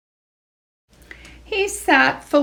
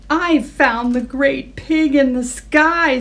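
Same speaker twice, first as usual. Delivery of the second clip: squealed; 4 semitones higher than usual. Acted. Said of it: "squealed Henry".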